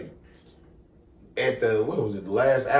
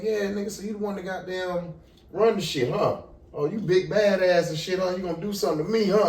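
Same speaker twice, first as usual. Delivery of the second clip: raised-pitch, softer mock-cop needling; taunting challenge; 5 semitones higher, 4 dB quieter than usual. Policeman goading a young man, imitated taunt. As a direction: goad him with each huh.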